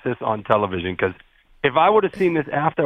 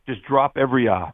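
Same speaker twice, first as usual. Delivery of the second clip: lazy Boston accent, R dropped. Shown as a demonstration. Boston fan coaching a producer, in Boston accent. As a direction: say R as "ah", Boston style. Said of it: "how to speak with a Boston accent".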